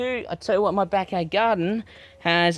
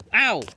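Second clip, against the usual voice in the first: sharp "ow" from a sudden prick; yelp of pain; 5 semitones higher, 5 dB louder than usual. Real, not acted. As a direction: cry out as the thorn gets you. Pricked by the thorny plant.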